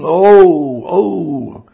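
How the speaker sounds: loud, longing groaning "Oh"; groan of joy and longing. Acted. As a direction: let a cry of yearning joy break out. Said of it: "a groan of joy and longing".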